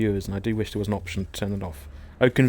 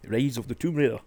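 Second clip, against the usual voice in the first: put-on "Rise of the Tomb Raider" in a so-so Scottish accent; "Raider" rolled Scottish style, falling at the end. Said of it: "I stopped my Scottish accent".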